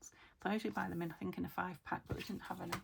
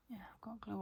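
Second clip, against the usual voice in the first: whispering; 2 semitones higher, 6 dB quieter than usual. Real, not acted. Quiet crafting chat, whispered aside.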